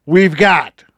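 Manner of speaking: slow drawn-out arena announcer; a hint of a hockey announcer. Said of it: "My hockey announcer voice is not very good".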